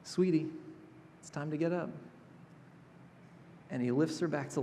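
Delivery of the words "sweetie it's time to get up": soft, gentle "Sweetie" like a parent at bedtime; tender wake-up. Retold or imitated. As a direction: coax her awake kindly. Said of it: "Actually, it's more like".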